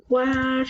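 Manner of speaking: "Guárdamelo" with a high GUAR, then da, me, lo apart; split into syllables. Shown as a demonstration. Teacher writing the accent, high held GUAR in "Guárdamelo". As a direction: separate the four syllables of "Guárdamelo" with pauses. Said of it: "le voy a escribir de una vez el acento".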